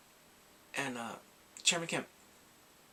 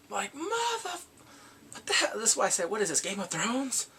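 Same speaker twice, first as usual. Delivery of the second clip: loud, high exasperated outburst; outraged disbelief; 7 semitones higher, 5 dB louder than usual. Retold or imitated. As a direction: explode in indignation at the plot twist. Outraged at second death.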